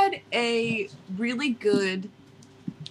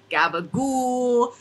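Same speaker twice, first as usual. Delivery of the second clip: drawn-out Italian Jersey slang; Italian Jersey accent; slower than usual. Acted. Host recentering the lost accent, slow Italian Jersey. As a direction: stretch GABAGOOL slowly in Jersey style. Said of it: "I'm losing it again".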